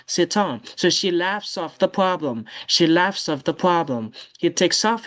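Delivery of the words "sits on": "Sit on" said as one word, sit-son; liaison. Shown as a demonstration. Teacher repeating the liaison example, linked words. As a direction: carry an s across into on in "Sit on". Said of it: "faut faire liaison comme ça".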